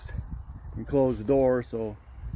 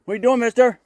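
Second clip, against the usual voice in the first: squeaky high pet voice, louder; 9 semitones higher, 4 dB louder, faster than usual. Real, not acted. Woman greets her goat in a high baby-talk voice.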